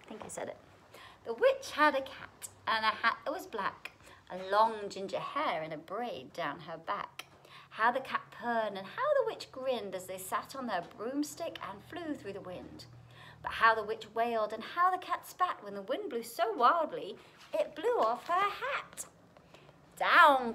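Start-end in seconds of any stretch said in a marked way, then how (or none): 1.3-19.0 lively rhyming storybook reading; story narration. A narrator's reading. Reads picture book aloud. 20.0-20.5 loud, sudden storybook shout; witch's cry. A narrator's reading. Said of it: "cried the witch".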